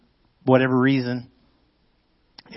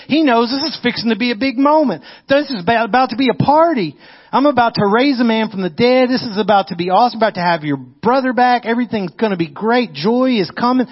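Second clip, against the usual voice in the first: higher, louder, rushing with joy; excited build; 8 semitones higher, 3 dB louder than usual. Acted. Preacher to congregation, imagining Jesus's joy, excited and raised. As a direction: preach it like a party's coming.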